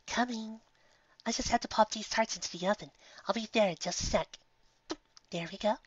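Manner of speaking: high, gentle motherly mare calling out; a kindly shopkeeper voice, lifted high; sweet baker mare. Acted. Baker calling to guests from the oven, sweet and high.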